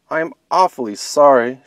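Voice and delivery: alarmed bunny. Acted. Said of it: "she cried with alarm".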